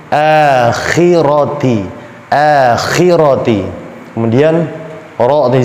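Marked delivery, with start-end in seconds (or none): 0.1-3.6 AKHIRATI slow, with a light "æ" first; thin, smiling. Shown as a demonstration. Teacher correcting the mistake, smiling Akhirati. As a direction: draw out Akhirati with spread lips.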